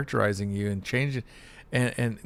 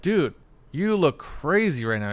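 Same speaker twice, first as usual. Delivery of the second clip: higher, drawn-out mock concern; needling friend; 5 semitones higher, 3 dB louder than usual. Friend gaslighting you, mock-concerned and drawn-out. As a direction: needle them slowly. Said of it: "they're like".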